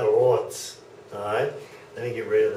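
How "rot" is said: "rot" with a German r gargled at the uvula; "rot" started with a throaty uvular r. Shown as a demonstration. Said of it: "Can you hear that?".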